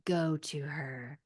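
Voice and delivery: slow, soft, solemn hammed-up delivery; dramatic roommate line. Retelling the cheesy ending line, slow mock solemnity. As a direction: intone it slowly like a cheesy movie moment. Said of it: "gets behind Little Nicky in the mirror and goes".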